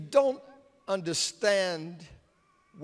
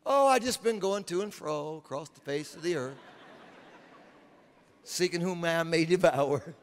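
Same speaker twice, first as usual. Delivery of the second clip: Satan's sly tone. Acted. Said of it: "you gotta hear this tone in Satan's voice".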